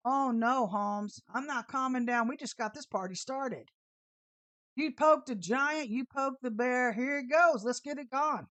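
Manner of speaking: loud, slow, fired-up threat; fired-up threat to the driver; fired-up defiance. Retold or imitated. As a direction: warn them the fight is on. Her fierce reply.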